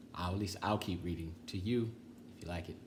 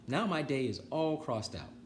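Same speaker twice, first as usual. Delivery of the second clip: higher, satisfied Toad; 5 semitones higher than usual. Acted. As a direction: finish contented. Toad voiced in story.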